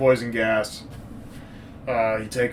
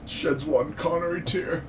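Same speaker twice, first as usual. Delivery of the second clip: hushed, slow, slightly raised pitch; mock poignancy; 4 semitones higher, 7 dB quieter, slower than usual. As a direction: soften and draw it out tenderly. Mock-tender telling of breakout moment.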